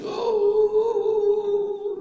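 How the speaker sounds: a sudden high, loud "Oh"; loud, high gasp of surprise; surprised oh. Retold or imitated. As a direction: jump up in pitch, startled by the tears. Friend sees you crying.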